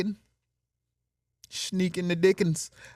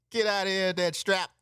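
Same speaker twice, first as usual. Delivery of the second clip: laughing dismissal; 3 semitones higher than usual. Retold or imitated. Acted quote while laughing.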